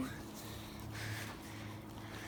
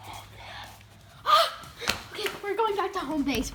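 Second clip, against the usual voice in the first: breathy laughing whisper; 2 semitones lower, slower than usual. Real, not acted. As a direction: giggle through it. Laughing reply.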